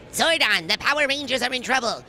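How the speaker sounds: booming metallic robot. Shown as a demonstration. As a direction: Alpha Five robot voice. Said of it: "Can you come in and do a robot voice".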